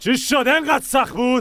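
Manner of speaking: high-pitched shout. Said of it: "داد نزن ببینم".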